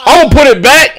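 imitating Chad. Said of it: "So I hear in the background".

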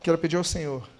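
soft, low prayer voice, unhurried; closing prayer. Acted. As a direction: lead the church gently into prayer. (voz baixa e suave de oração)

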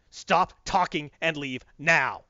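deliberate, spaced-out command; stern order. Retold or imitated. Batman ordering Superman to leave, stern. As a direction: order him off, one slow word at a time.

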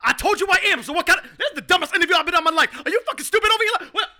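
loud, indignant sports-pundit rant; Stephen A. Smith impression. Caller ranting at the podcast host, loud and indignant. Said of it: "worst imitation of Stephen A. Smith".

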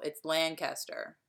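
LANCASTER slowly as LAN-CAS-ter, hard A. Shown as a demonstration. Woman from Lansdowne justifying herself, slow hard-A LAN-CAS-ter. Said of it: "it's a really hard A".

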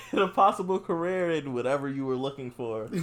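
phone sales pitch through laughter; mock caller script, cracking up; laughing telemarketer voice. Acting telemarketer call, laughing.

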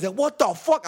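high-pitched drawn cry of disbelief; mock baffled outcry; acted alarm. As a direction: reenact shock at rising water. Acting out wading in the flood.

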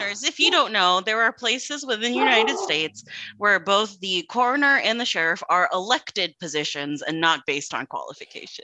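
informative recital, delivered straight; encyclopedia app reading. Real, not acted. Explaining coroners to the listeners, encyclopedia app delivery. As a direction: rattle off a fact like an encyclopedia entry. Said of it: "read that like an encyclopedia app".

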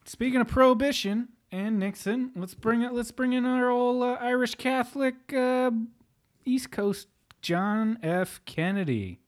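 high, hammed-up grand introduction; mock announcer intro. Announcing John F. Kennedy to his podcast co-host, hammed up high. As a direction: bring him on like a showman, slowing at the end.

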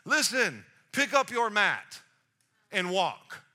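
emphatic, spaced-out command; cutting off whining. Acted. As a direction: order him over his complaints. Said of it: "Let me shut down the wambulance".

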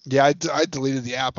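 stammering through hiccups. Real, not acted. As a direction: hiccup jolts the words. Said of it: "Sorry, I got the hiccups".

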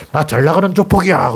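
hammed-up gangster swagger; mock gangster boast. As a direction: puff up like a cocky mobster.

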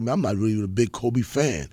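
low, dismissive grumble of the barber friend; imitating the friend. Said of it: "He's like".

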